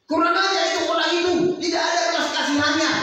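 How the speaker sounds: fast, high, angry outburst; furious king. Acted. King David condemning the rich man, high and fast. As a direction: spit out the outrage quickly.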